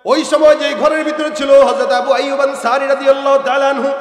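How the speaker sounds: loud, rousing sermon delivery; full-force preaching. Real, not acted. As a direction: preach it out, stretching the line endings. (জোরালো ওয়াজের সুরে)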